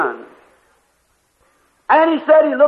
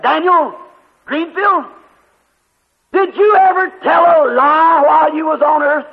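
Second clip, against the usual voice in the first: raised, solemn voice of a heavenly judge; voice of judgment; 3 semitones higher than usual. Retold or imitated. The judge questions the evangelist about lying, solemn raised voice. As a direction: call the sinner to account. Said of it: "the voice came back and said".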